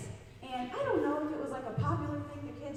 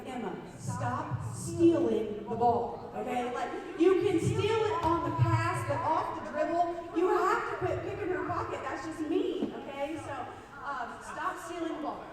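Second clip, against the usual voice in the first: loud, slow-starting scold that rises higher, with a laugh; firm coaching scold; 4 semitones higher, 6 dB louder than usual. Retold or imitated. Coach scolding his player mid-game, loud and firm. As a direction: firmly tell her to quit stealing.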